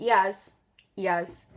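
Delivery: ears in two beats, "ee-ahz"; Geordie ears. Shown as a demonstration. Mum coaching her daughter, Geordie ears in two syllables. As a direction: open the end of ears to "ahz". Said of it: "speak like a Geordie".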